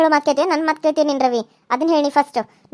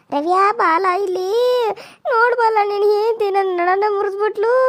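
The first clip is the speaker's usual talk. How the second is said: slow, tearful complaint; mock crying; 3 semitones higher than usual. Mother-in-law crying to her son about her broken back. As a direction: whimper to win the son over.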